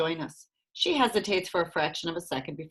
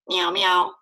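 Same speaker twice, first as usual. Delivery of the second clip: cat meow; 5 dB louder than usual. Acted. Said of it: "Bonesy calls from the basket".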